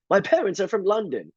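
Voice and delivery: put-on high, proper English-accented voice; prim British cashier. Mimicking the cashier repeating the same answer. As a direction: repeat it stiffly and primly. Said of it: "super proper".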